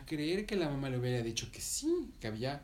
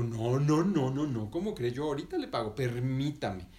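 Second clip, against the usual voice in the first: louder, firm no no no; the lady refuses to let it go, louder and firm; insistent lady; 5 dB louder than usual. Acted.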